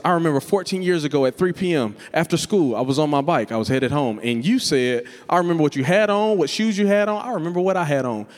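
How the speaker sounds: mock the one who remembers every detail; whiny grudge holder. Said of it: "Some of you sound like this".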